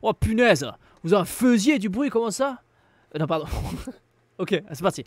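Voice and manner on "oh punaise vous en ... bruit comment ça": put-on loud, lively Marseille accent. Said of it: "je te fais un, un accent marseillais".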